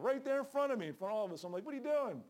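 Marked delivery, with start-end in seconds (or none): 1.7-2.2 retold confrontation. Confronting pot smoker.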